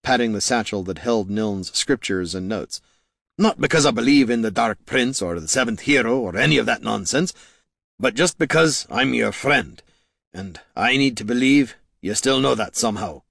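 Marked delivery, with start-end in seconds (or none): 3.4-13.2 earnest confession to a lost friend; lightly voiced tender admission; heartfelt hero Gorm. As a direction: speak it sincerely, in character.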